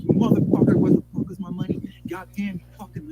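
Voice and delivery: a loud, cursing yell replayed at him, only half re-done; mock heated swearing down the phone; retold phone yell. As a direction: snap it out like the phone fight again, a little toned down. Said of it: "We're screaming at each other on the phone".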